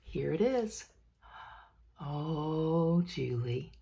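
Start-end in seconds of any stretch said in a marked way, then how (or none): 2.0-3.7 swooning fan. Pretend.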